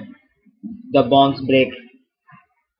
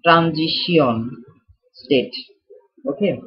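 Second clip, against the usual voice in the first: Transition state drawn out slowly in a mock French accent, like rand-jee-see-on; slow, hammed-up French accent on Transition state; slower than usual. Teacher repeats the term for the class in a slow mock French accent. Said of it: "How was my French accent".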